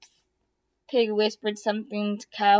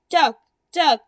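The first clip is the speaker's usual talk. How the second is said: calling out; 2 semitones higher, 7 dB louder than usual. Acted. Goose calling to Duck.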